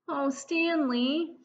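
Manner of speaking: crying softly. Acted. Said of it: "Arthur couldn't help crying".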